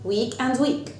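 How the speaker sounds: "weak and weak" drawn out and even; slow demo. Shown as a demonstration. Teacher repeating the homophone pair for kids. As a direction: say both weak the same, slowly. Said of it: "weak أسبوع".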